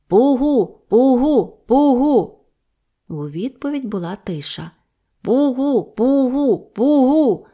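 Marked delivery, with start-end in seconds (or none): 0.1-2.4 high, loud hooting call "Пугу" thrown far across the steppe; calling at full lungs. Acted. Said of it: "гукнув на цілі легені". 5.2-7.4 "Пугу" hooted high and loud, each call falling; calling again. Acted. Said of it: "знову гукнув Голота".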